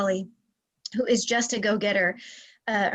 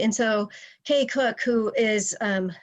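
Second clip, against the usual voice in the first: breathless, air running out between phrases; short of breath. Real, not acted. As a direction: talk while short of breath from illness. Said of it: "sorry, I'm short of breath".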